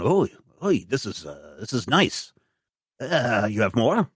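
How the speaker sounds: lightly voiced pub lad eyeing the gun; eager snooker player.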